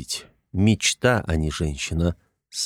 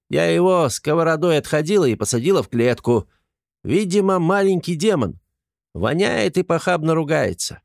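lightly raised voice of a stout cook; 5 semitones higher than usual. Acted. Stout cook complaining to Artyom about the thief, lightly voiced. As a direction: gossip about the little thief, a touch higher.

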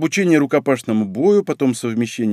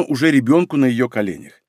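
ordinary delivery, nothing marked

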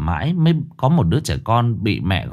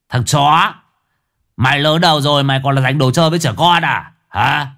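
angry confrontation; 3 semitones higher than usual. Acted. Angry father confronts man over toy.

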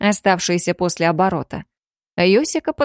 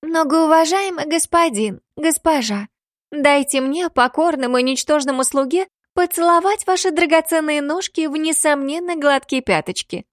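hammed-up squeaky East Asian stereotype; squeaky mock East Asian accent; 7 semitones higher than usual. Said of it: "произнесла песклявым голосом, стереотипно имитирующим восточный акцент".

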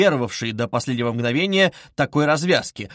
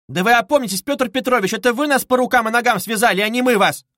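much higher, louder outrage; beside herself; 7 semitones higher, 4 dB louder than usual. A narrator's reading. Mother loses her temper at Luzhin, much higher and louder. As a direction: explode at him, outraged. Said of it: "вышла из себя".

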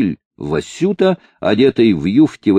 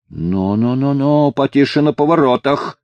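put-on drunken shout; 5 semitones higher than usual. A narrator's reading. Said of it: "пьяно заорал Василь".

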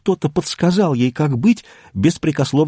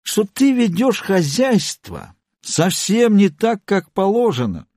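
slow scolding; 8 semitones higher, slower than usual. A narrator's reading. Drunk husband scolds wife.

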